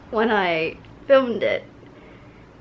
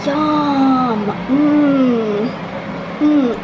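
sarcastic yum; 4 dB louder, much slower than usual. Pretend. Sarcastic about crusty mess.

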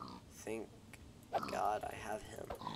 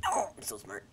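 whispered sarcastic self praise. Real, not acted. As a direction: brag with heavy sarcasm.

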